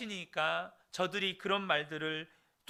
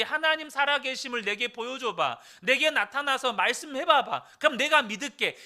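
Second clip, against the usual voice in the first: mocking challenge; 5 semitones higher, 5 dB louder than usual. Mocking worldly people's demand.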